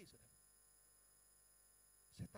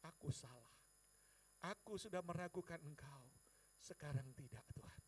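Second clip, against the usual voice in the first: contrite prayer. Retold or imitated. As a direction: confess humbly to God, voice lowered. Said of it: "Saya langsung berlutut".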